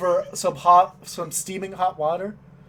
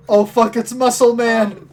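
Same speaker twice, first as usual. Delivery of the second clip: louder, alarmed curse; alarmed outburst; 3 semitones higher, 7 dB louder than usual. Acted. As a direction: blurt it out in alarm. Shopkeeper panics at customer.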